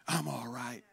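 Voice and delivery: low, very soft brush-off; subdued false reassurance. Acted. Proud sufferer lying to Simon, subdued false reassurance. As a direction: play down the hurt, barely voiced. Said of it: "you lie and say".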